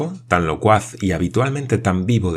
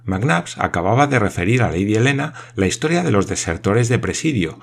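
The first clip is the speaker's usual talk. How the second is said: lively geographer; 3 semitones higher, 3 dB louder than usual. Acted. Paganel explains at length.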